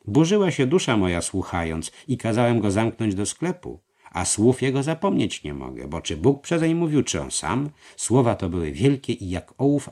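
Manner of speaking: voiced master. A narrator's reading. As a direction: weigh each word, uneasy. Master troubled. (mistrz mówi niechętnie, głośniej)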